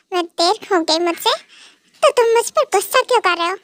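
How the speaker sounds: tearful, whiny complaint; a hint of acted crying. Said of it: "और ऊपर से रो रही हो". (हल्का रोते हुए)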